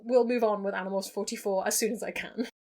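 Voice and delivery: echoey attic room sound; recorded in an echoey attic. Real, not acted. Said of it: "very echoey audio that comes as a result of filming in an attic".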